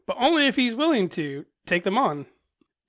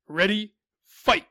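booming fighting game announcer; 2 semitones higher than usual. Pretend. Fighting game start call.

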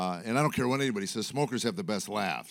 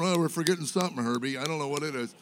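jellyfish talking; 4 semitones higher, faster than usual. Retold or imitated. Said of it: "sitting there four feet away going".

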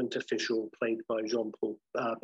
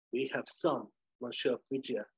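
put-on lightly done French accent; 4 dB quieter than usual. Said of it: "with a French accent".

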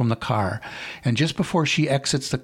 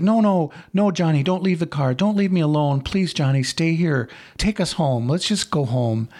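frightened pleading; 4 semitones higher than usual. Acted. Girlfriend begs him not to leave.

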